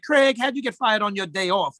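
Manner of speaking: put-on playful take on a Black American accent from Friday; Friday-movie Black English. Comedian quoting Friday to explain his name, light Black American accent. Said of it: "kind of black, like Friday Black".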